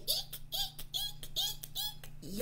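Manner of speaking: tiny, high, soft squeaks; mock-frightened squeaking; scared eeks. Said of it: "dragons are so scared".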